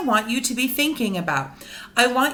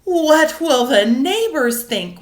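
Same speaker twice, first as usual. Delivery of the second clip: worried mother; 5 dB louder than usual. Acted. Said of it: "worried his mother".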